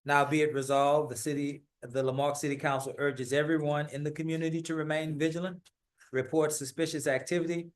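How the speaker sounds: measured, official read of a city proclamation; steady civic reading voice; formal proclamation reading. Acted. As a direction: read it out like a formal decree to the council. Reads the city proclamation aloud.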